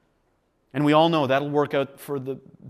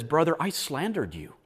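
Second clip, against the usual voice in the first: softer, a hint of tears; tearful confession; 7 dB quieter than usual. Brother confessing slander with tears, in a hushed broken voice. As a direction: ask forgiveness brokenly. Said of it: "with tears in his eyes and says".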